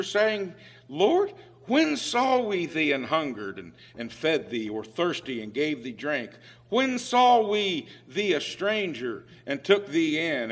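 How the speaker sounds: measured King James reading with preacher's swells; solemn Bible reading, lightly dramatized; scripture reading. Acted. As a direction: read the verses aloud to the congregation. Reads Matthew 25 aloud.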